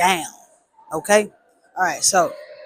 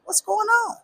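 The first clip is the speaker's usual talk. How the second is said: surprised; 4 dB quieter than usual. Retold or imitated. Confused self on phone.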